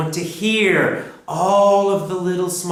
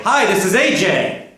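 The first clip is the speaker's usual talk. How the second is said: model sentence; 4 semitones higher, 4 dB louder than usual. Shown as a demonstration. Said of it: "I might say".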